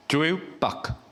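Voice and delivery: "조에우박" sounded out carefully in a Korean accent; tentative French pronunciation. Shown as a demonstration. Priest trying the hardest greeting, French, careful "조에우박". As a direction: attempt "조에우박" as unfamiliar French, word by word. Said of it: "이 불어가 제일 어렵더라고요".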